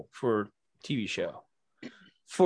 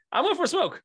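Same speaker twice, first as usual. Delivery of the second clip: squeaky, higher innocent fib; mock innocent high voice. Guest mimicking himself at the hotel lobby, high innocent voice. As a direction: play it like a guilty kid. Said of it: "I'm like".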